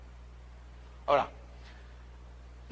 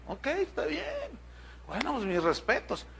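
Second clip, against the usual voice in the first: laughing reply; 5 semitones higher, 6 dB quieter than usual. Retold or imitated. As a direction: chuckle it out as you give in. Pastor's reply retold with a laugh.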